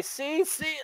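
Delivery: high, choked words breaking into coughs; acted coughing fit. Game master playing out the player's coughing fit, choked and sputtering. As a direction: sputter helplessly mid-word. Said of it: "you start coughing uncontrollably".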